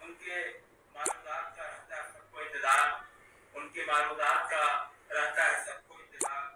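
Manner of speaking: measured mushaira recital, each line repeated; poem recitation. Acted. Poet reciting his tribute to a friend at a mushaira, measured poem recitation. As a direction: recite verse in deliberate, separated phrases.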